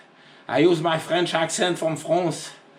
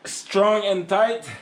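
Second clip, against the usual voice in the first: laughing; 4 semitones higher, slower than usual. Real, not acted. Laughing at own tightening.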